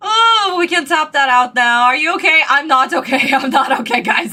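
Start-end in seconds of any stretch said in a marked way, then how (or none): 2.5-4.3 laughing. Real, not acted. Cracking up after the outburst.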